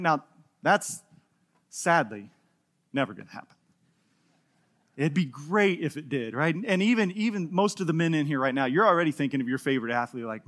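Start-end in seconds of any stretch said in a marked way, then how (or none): 0.0-6.5 dropping low and soft, mock sorrow; mock sad. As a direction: let the dream die softly. Sad letdown.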